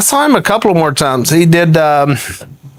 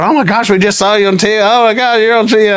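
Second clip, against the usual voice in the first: quick, raised, excited chatter; excited buddies; 5 semitones higher, faster than usual. Retold or imitated. Buddies spotting their friend on TV, imitated excitement. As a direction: imitate buddies gushing in a rush.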